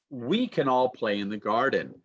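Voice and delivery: "can" weakened to "kun" in the sentence; reduced can. Shown as a demonstration. Teacher modelling a sentence for students, reduced can. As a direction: glide over "can" with a short uh vowel. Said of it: "Can changes to kun".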